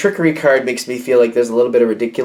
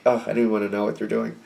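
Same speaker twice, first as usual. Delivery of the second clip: detached disgust; faster than usual. Acted. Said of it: "like, detach from it".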